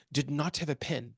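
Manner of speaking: slow, badly faked French accent; half-hearted French accent, measured out word by word. Quoting his UN boss, in a terrible French accent. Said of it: "it's a terrible accent".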